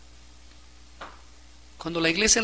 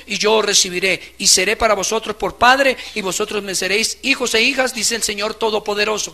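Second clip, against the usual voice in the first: solemn scripture reading; 4 semitones higher, 7 dB louder than usual. Acted. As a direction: read the verses loud and solemn. Reads scripture aloud, raised. (lectura solemne de la Escritura)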